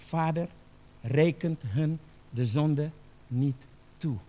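slow, measured plea with pauses; forgiving prayer. Acted. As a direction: pray it slowly, without demanding. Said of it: "Maar hij zegt". (rustig, vergevend gebed)

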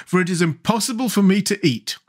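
high-pitched, pleasant explanation. A narrator's reading. Jack explains he cannot eat, pleasantly. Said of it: "answered Jack more pleasantly".

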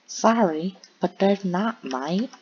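attempted Canadian accent sliding into Australian; mock Canadian accent. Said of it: "That's more Australia".

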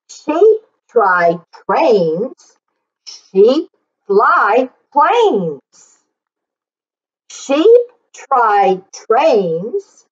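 put-on slow, deliberate reading for children; slow read-aloud. Teacher reading slowly with the class, word by word. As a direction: spell out each line slowly so they can follow.

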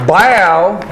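loud, punchy exclamation; loud hype shout. Pretend. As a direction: bark it like a hype man. Hyping the deal.

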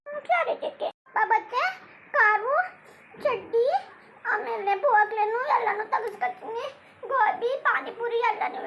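put-on a small child begging mum not to cry; little child voice. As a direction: innocent child's voice. Child figure again.

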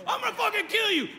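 snarling bar-fight threat; menacing threat. Acted. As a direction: threaten to kill him. Comic acts out bar threat.

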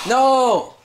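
sudden high loud no; sharp no. Real, not acted. Parent yelling no at the child. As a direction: stop them cold with one loud word.

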